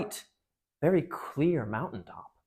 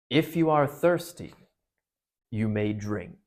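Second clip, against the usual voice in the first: lion's golden voice; 3 semitones lower, slower than usual. Acted. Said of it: "a deeper, wilder, and stronger, a sort of heavy, golden voice".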